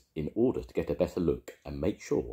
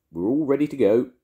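calling out; 8 semitones higher, 9 dB louder than usual. A narrator's reading. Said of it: "called Missus Bird".

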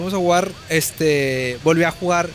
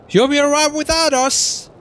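put-on high, slow British accent parody; exaggerated British-accent echo by a Spanish speaker; mimicked British accent; 11 semitones higher, 4 dB louder, slower than usual. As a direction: copy the game's British accent, pitched up and stretched out. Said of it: "me gusta un chingo ese pinche acento".

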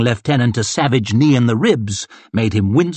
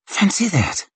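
mild grunt; 8 semitones higher than usual. Acted. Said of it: "he grunted".

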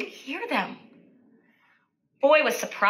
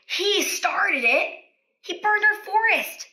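grumpy king blaming; 7 semitones higher than usual. Acted. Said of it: "the king said".

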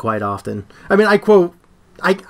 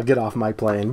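softer, lower version of the line; low quiet tone; 6 semitones lower, 6 dB quieter than usual. Shown as a demonstration. Explains to his friend his casual tone, low and quiet. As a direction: say it low and quiet, almost to yourself. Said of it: "I'll say it in the tone of".

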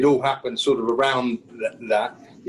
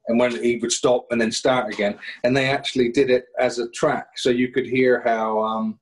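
normal talking voice

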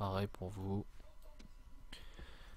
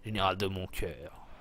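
mock tender; 3 semitones lower than usual. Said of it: "T'as comment c'est pervers".

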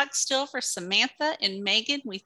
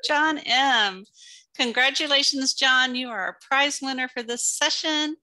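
excited congratulations; 3 semitones higher than usual. Real, not acted. Congratulating the winner.

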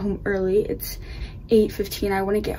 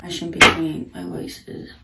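groggy just-woken whisper; sleepy low morning voice; 3 semitones lower, 5 dB louder than usual. Real, not acted. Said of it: "Morning voice".

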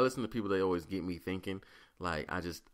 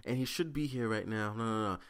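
imitating the homeless lady; 5 semitones higher than usual. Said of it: "she's like".

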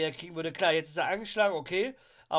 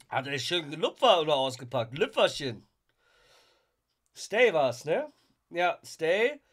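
normal talking voice

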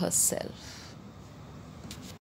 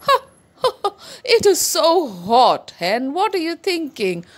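higher dog voice with breathy pants; pant, then protest at the heat; panting hot dog; 8 semitones higher than usual. Acted. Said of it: "went to the dog".

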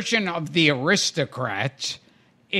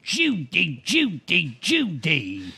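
Cary Grant impression; slower than usual. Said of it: "Cary Grant would always go".

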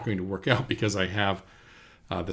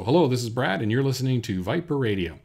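lightly projected radio ident, higher and louder; radio host; 4 semitones higher, 6 dB louder than usual. Shown as a demonstration. Demonstrates the radio ID line.

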